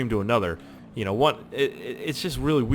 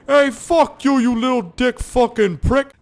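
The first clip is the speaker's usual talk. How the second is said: loud, high screeched insult; hammed-up furious yell, high-pitched; imitated angry woman; 13 semitones higher, 8 dB louder, slower than usual. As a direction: hurl the insult across the street. Retold street fight, woman yelling.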